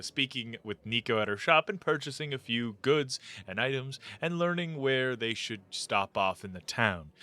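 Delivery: game master recap voice; story narration. Acted.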